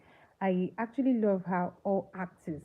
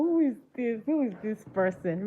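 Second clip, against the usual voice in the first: mock dismissive reaction; 3 semitones higher than usual. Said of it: "I would go".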